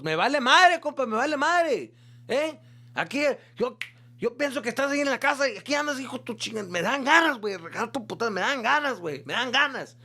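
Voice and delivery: high, loud mock rage of an angry father; furious dad yelling. Dad yelling at his son in front of the girls, high and loud. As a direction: explode at your son like a fed-up dad.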